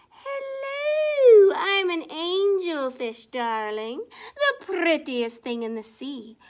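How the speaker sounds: a hint of a vain, preening fish; lightly voiced show-off; vain angelfish. The angelfish boasting to the sea, lightly preening.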